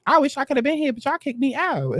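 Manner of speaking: mock wistful complaint. Host imitates E T lamenting being kicked out, high mock regret. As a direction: whine it a little high, mocking her regret. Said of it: "She looking around like".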